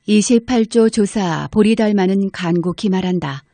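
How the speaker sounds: usual speaking voice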